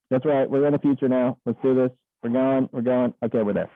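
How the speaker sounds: muffled inside a helmet; talking through a space helmet; putting helmet on. Real, not acted. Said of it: "but I'm gonna put my helmet on".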